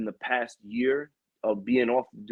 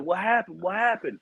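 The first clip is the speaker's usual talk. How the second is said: surprised boss; 6 semitones higher than usual. Retold or imitated. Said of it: "the boss is like".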